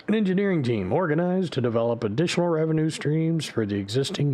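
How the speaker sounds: crisp news anchor read; newscaster voice. Shown as a demonstration. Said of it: "the newscaster voice".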